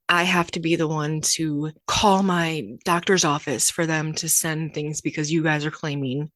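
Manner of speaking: mild retold frustration. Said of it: "I was like".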